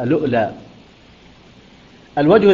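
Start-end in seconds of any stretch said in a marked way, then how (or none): 0.0-0.5 "اللؤلؤ" opened with a hamza on a short a, then lam with damma, then a sukun hamza; "اللؤلؤ" starting on a hamza; first starting reading. Shown as a demonstration. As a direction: recite "اللؤلؤ" as aluʔlā. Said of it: "يقرأ هكذا".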